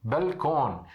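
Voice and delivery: "balcão" said as belkon; careful demo of belkon; Arabic pronunciation of balcão. Shown as a demonstration. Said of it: "a gente fala balcão".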